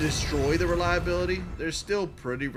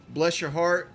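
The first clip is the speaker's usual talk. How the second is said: "Bless your heart" sweet and rising, with a light Southern lilt; a hint of syrupy Southern politeness; 2 semitones higher, slower than usual. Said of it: "Southern slang".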